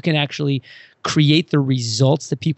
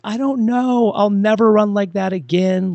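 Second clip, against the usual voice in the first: lightly voiced young girl, high and earnest; a hint of a little girl; 6 semitones higher than usual. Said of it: "She's like".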